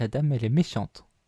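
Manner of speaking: small, tiny put-on voice. Voicing the little voice that is heard again, in a small little voice. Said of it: "t'entends de nouveau la petite voix".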